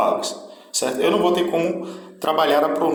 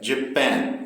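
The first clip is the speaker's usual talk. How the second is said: "Japan" with closed first syllable, open stressed second; closed start, open ending. Shown as a demonstration. Teacher showing the contrast in syllables, Japan opening at the end. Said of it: "início mais fechado e o final aí mais aberto".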